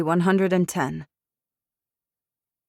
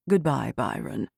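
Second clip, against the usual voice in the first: smug farewell; 4 semitones lower than usual. Acted. Poe ends the call.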